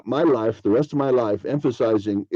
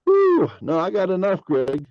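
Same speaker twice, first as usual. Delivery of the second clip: 2 a high, breezy brush-off; 3 wave it off lightly, much higher; 4 a polite no-thanks, pitched up; 1 turning down politely; 7 semitones higher than usual. Retold or imitated. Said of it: "some people go".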